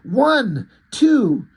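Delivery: lightly voiced animal counting out words; rabbit character. Voicing the rabbit pleading for peace.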